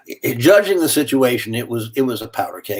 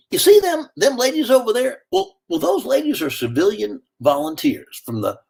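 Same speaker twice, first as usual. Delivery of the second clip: soldier's brush-off, lightly voiced; 8 semitones higher than usual. Soldier in the jeep sending the man to the Red Cross.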